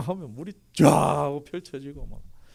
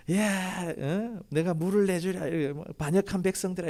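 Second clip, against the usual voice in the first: angry Moses; 6 semitones higher than usual. Retold or imitated. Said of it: "분노한 거죠".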